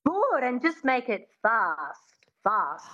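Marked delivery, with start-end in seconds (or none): 1.4-2.9 "fast" said as fahst; long ah vowel. Shown as a demonstration. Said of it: "get rid of fast and go fast".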